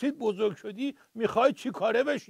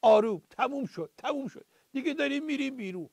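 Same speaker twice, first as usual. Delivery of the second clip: put-on soothing old man. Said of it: "پیرمرده گفت".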